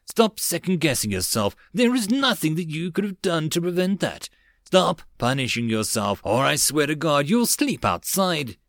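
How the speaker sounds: firm, stern, not truly angry; fierce tone. Acted. Princess scolding her captain for self-blame, mildly fierce. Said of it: "spoke in a fierce tone".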